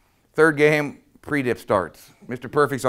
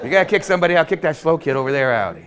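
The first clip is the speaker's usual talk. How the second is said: high, louder comic objection; mock protest; 6 semitones higher, 5 dB louder, faster than usual. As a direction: argue it in a raised, hammed-up voice. Coach's joking protest continues.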